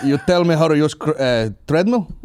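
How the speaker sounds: lightly put-on foreign accent; puzzled Taliban pilot. Apache pilot asking about the treadmill, in a mock accent. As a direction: imitate a baffled gym newcomer in broken English.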